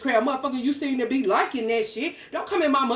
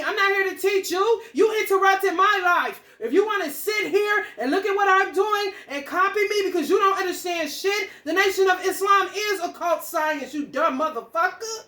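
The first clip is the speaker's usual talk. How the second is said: angry shout; 6 semitones higher than usual. Real, not acted. Ranting at an imagined watcher, shouting in real anger. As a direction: yell it at whoever is watching.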